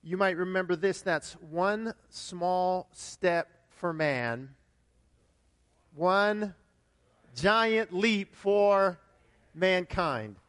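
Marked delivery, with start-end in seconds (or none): 1.3-10.4 slow, drawn-out famous quote; quoting Neil Armstrong. Retold or imitated. Pastor to congregation, slow solemn moon quote. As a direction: stretch each word like a historic broadcast. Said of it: "the words of Neil Armstrong".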